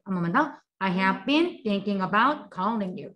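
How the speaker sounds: 천천히 한 단어씩 따라 하게 읽기; 학생들이 따라 하도록 또렷하게; 또박또박 시범 낭독. Shown as a demonstration. Repetition drill. (따라 하기용 느린 시범 낭독)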